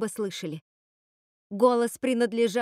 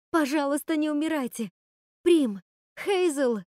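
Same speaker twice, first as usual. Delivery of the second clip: отчаянная мольба; 5 semitones higher than usual. Acted. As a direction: break into desperate pleading. Отчаянная мольба над сёстрами. (Готель всё громче и выше умоляет сестёр не умирать)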